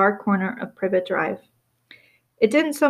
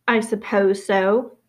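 stiff; slower than usual. Acted. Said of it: "said Missus Dursley stiffly".

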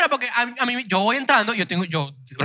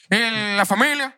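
slow, drawn-out "la familia" like a stern father; imposing dad; 4 semitones higher, slower than usual. Retold or imitated. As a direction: lean back and stretch "familia" slowly, imposing. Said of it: "se ponen así como imponentes". (padre imponente, lento)

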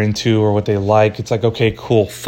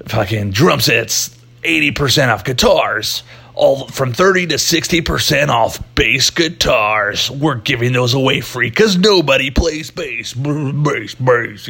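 hyped sale ad; 2 semitones higher than usual. Retold or imitated. Mocking hyped sale ads.

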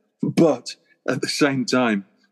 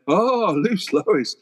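slow awed chorus; 5 semitones higher, much slower than usual. Retold or imitated. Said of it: "everybody's like".

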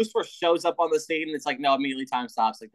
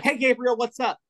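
mock cheery greeting; 10 semitones higher than usual. Lucifer greets Gabriel mockingly.

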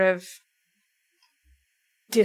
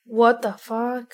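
catchphrase disbelief; 2 semitones higher, 3 dB louder, slower than usual. Real, not acted. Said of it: "that's just my tagline".

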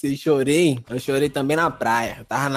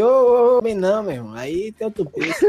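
calling out; 5 semitones higher than usual. Retold or imitated. Calling girl away from new spot.

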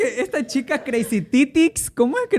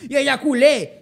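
laughing quote; 5 semitones higher, 3 dB louder, slower than usual. Retold or imitated.

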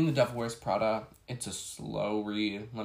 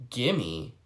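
incredulous. Real, not acted. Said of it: "Who do you think you are?".

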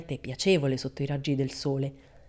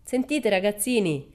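slow, raised call across the garden; 5 semitones higher, 3 dB louder, slower than usual. Acted. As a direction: hail the children from the car. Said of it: "gridò".

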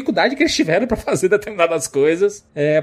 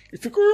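a sudden high shriek, imitating the creature; mock scream; much faster than usual. Recalling the creature shot in the head, a mock high shriek. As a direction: squeal it like the monster hit in the head. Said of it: "que ficava o bicho gritando".

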